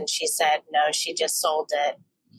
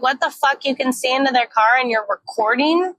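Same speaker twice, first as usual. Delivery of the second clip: retold shock; 6 semitones higher, 4 dB louder than usual. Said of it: "And I'm like".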